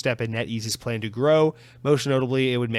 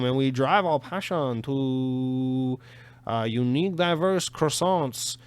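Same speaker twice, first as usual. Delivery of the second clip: mock French accent; 3 semitones higher than usual. Mocking a French CEO's statement in a French accent. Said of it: "trying to mimic a French guy".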